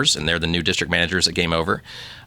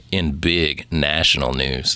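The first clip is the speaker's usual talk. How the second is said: sexy voice; 3 semitones lower, much slower than usual. Pretend. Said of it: "I'm gonna read the news in my sexy voice".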